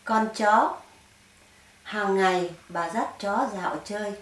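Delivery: measured verse reading with pauses between lines; poem recitation. Acted. Author reads her satirical dog poem to viewers, poem recitation. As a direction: recite it line by line, letting each phrase stand.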